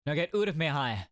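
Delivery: "out of my hair" said as "oot of me hair"; attempted Scottish accent. Prison governor dismissing his visitors, attempted Scottish accent. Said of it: "I cannot do a Scottish accent".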